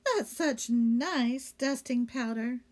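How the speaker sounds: slow, innocent maid voice. Acted. Amelia Bedelia character voice.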